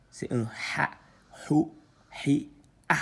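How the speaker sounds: whispered syllables. Shown as a demonstration.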